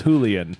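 "Julian" with an H sound, HOO-lee-un; Spanish pronunciation. Shown as a demonstration. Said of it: "Mitch has decided it's Julian".

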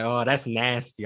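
put-on slow American-accented "nasty"; imitating an American saying "nasty". Londoner showing how Americans had him talking, imitated American accent. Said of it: "saying nasty the way you guys say it".

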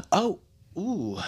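soft mock moan. Showing how he reacts to a calf massage, soft moan. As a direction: sigh with pleasure under the massage.

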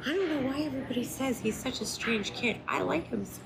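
high-pitched imitation of a gushing mom; imitating mom. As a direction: voice mom way up high, drawing out the praise at the end. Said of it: "my mom was even like".

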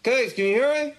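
asking over a fake bad line; bad connection call. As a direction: pretend lagging call. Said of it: "You pretend you're frozen?".

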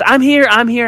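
imitating the woman.

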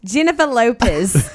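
mock Australian accent with a laugh. Shown as a demonstration. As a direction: show off your one phrase in an Australian accent. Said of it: "say in an Australian accent".

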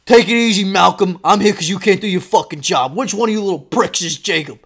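loud, forceful acted tirade; angry dad shouting. Dad berating teacher and hunting the bully, angry shout. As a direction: hammer out the rebuke, then demand.

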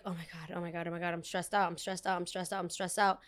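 quiet, rapid panicked repeating under her breath; panicked muttering. Retold or imitated. Stressed about missing her final, she mutters to herself quietly. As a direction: mutter it to yourself in a spiral of stress. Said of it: "I was like".

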